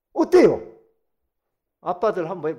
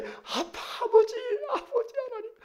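very high, hammed-up child's cry; childlike calling; 9 dB louder than usual. Preacher showing believers calling God, childlike cry. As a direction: call out like a child running to Dad. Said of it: "우리도 그렇게 해야 돼".

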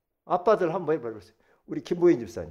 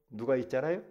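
normal talking voice

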